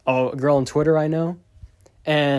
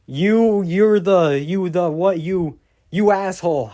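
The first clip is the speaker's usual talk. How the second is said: high, loud mock of a garbled internet bully; mock illiterate troll; 6 semitones higher, 6 dB louder, slower than usual. Mocking the Twitter stalker's broken threats, high loud mock bully. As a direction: sputter it like a clueless bully. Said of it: "the worst grammatical way ever".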